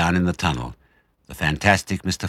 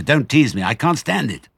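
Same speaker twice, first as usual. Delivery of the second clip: pained plea; 8 semitones higher, 5 dB louder than usual. Acted. Badger begging.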